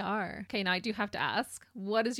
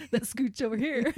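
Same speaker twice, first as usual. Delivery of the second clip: stuck high pitch; 2 semitones higher, 4 dB louder than usual. Real, not acted. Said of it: "My voice went really high there".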